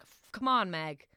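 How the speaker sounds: mock-scold yourself, slowing at the end; angry self-talk. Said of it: "in anger".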